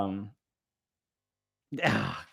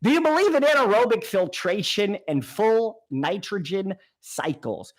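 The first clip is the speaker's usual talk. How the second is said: imitating viewer; 6 semitones higher than usual. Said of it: "you don't sound like this".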